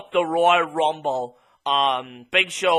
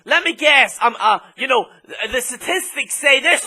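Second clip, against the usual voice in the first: dopey hesitant commentator voice, lightly put on; mocking the commentator; 3 semitones higher, 4 dB louder than usual. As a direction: ape a clueless commentator fumbling for words. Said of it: "Nobody gives a fuck about the statistics".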